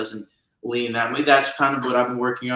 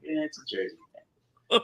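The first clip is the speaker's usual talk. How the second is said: put-on Jersey accent; 3 semitones higher, 5 dB quieter, much faster than usual. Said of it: "Yeah, I'm putting it on".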